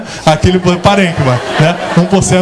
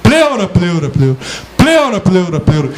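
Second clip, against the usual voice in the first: echo. Shown as a demonstration. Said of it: "linhas de reverberação".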